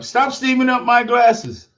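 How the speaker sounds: mock scolding glasses. Telling his fogging glasses off, hammed-up mock scolding. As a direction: scold the glasses like a naughty kid.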